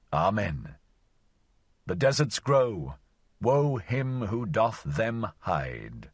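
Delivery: a wanderer's mock-solemn song to desert maidens, recited with relish; declaimed poem. Wanderer serenading desert daughters, mock-solemn poem. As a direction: lay it on like a half-mocking love poem.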